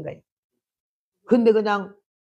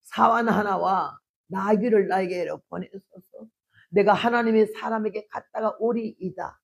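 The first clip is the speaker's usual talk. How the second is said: calm composure. Acted. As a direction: say it without a trace of alarm. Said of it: "아무 티 없이 이런 말을 했네".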